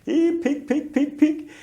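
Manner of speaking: very high-pitched, loud pig call; yelling pig call. Retold or imitated. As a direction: call out for a pig at the top of your voice. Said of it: "at the top of my voice, I'd yell out".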